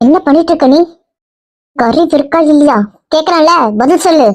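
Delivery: a touch of angry yelling; angry scolding. Acted. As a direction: scold and demand an answer. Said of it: "இதை ஏன் கத்துறீங்க".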